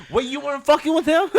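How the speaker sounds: high-pitched, laughing double-take; mock disbelief. Retold realisation of his mistake.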